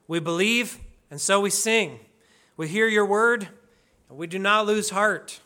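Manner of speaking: measured prayer in short, paused phrases; deliberate spoken prayer; public prayer. Acted. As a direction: lead the congregation in prayer, addressing the Lord. Leads the congregation in prayer.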